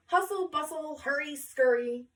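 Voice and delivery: teacher rushing late pupils in; hurrying teacher. Acted. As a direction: chivvy them along like a busy teacher. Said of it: "said Miss Shepherd as she rushed".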